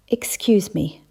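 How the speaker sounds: a whispered, hammed-up apology; mock tearful whisper. Mayor faking grief at a funeral, whispered. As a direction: pretend to be overcome, barely voiced. Rubbed at his dry eyes and sniffed.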